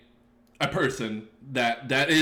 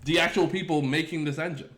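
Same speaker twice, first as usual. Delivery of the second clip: exasperated rant; 4 semitones higher than usual. Retold or imitated. Streamer venting about Godot docs to chat, exasperated. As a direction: drag out the complaint, still fuming. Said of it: "Excuse me, like".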